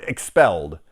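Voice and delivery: hammed-up indignant complaint; indignant demand. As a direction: play the wronged girl demanding justice.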